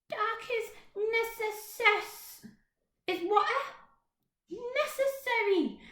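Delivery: slow, halting repeat of necessary; stumbling over a word. Acted. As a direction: sound out the long word Necessary puzzled. Plop repeats the hard word.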